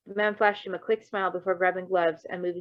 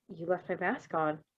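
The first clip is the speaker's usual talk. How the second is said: dumbstruck; 6 dB quieter than usual. Acted. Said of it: "he said, dumbstruck".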